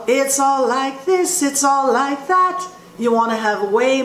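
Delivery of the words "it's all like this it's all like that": light demo placed more in the mask; forward jazz tone. Shown as a demonstration. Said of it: "While you go".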